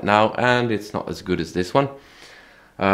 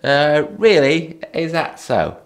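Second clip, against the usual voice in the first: naive surprised self; 7 semitones higher, slower than usual. Retold or imitated. Naive self in retold dialogue.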